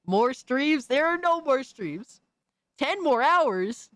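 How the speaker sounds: high fake girly voice, drawn out. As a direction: put on a sweet fake girl voice. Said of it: "This is the speaker's fake girly voice for YouTube".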